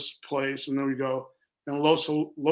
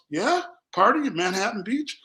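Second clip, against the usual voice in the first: higher-pitched retold questioning; puzzled questioning; 4 semitones higher than usual. Stranger answering someone who mistook him for a friend, puzzled.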